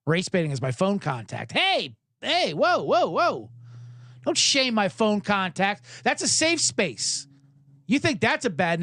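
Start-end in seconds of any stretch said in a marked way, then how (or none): 1.5-7.3 high-pitched comic indignation; mock protest. Host defends his phone contacts to friends, mock indignant. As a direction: object as if deeply wronged, dragging the words.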